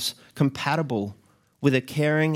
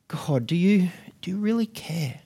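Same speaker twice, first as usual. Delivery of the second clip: crying out to God; 5 semitones higher than usual. Retold or imitated. A struggling believer asking God, a lifted plea. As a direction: pitch rising on really, a lifted plea. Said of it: "we cry out".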